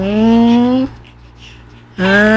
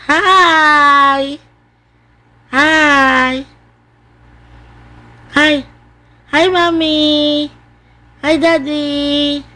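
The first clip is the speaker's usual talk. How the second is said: drawn-out, higher playful greetings; speaking for baby; 4 semitones higher, much slower than usual. Pretend. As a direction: stretch each hi for the baby. Greets fans and parents for baby. (masayang pagbati para sa sanggol)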